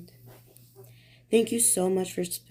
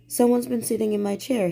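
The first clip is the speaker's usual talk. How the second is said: growled; 4 semitones higher than usual. Acted. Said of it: "he growled".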